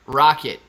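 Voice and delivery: put-on rocket said really flat, without accent. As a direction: imitate a plain, accentless "rocket". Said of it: "really flat".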